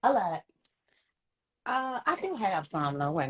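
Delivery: half-whispered confession. Real, not acted. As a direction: whisper it like a secret. Confessing a small lie.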